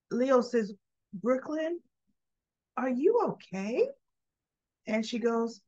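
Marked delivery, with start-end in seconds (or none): 1.1-3.9 higher, gentle questioning voice; lightly imitated caring child; concerned little boy. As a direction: check softly on someone who seems upset. Child checks on upset Brooklyn.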